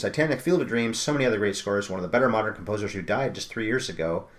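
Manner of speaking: fast rattled-off list, no pauses; all in one breath. Shown as a demonstration. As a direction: race through the credits breathlessly. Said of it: "let me see if I can do this in one breath".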